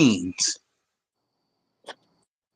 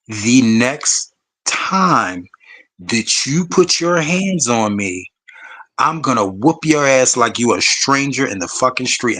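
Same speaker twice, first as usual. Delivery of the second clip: deliberate warning; slower than usual. Retold or imitated. Retold warning to partner.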